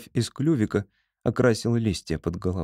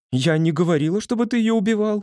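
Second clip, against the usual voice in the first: shouting; 10 semitones higher than usual. A narrator's reading. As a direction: yell it at him accusingly. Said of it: "кричала Поня". (кричит, обвиняя)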